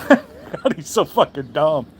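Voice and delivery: laughing through the words in disbelief; a short laughing burst. Real, not acted. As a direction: laugh it out, amused scorn. Laughing at a dumb accent.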